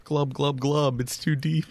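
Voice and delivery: gurgly drowning creature voice; gurgling fish man croak. Acted. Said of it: "now he's rhyming".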